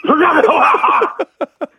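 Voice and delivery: loud high yelp of pain; pained cry. Retold or imitated. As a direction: cry out like being struck. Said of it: "설경구 형이 실미도에서 맞았을 때".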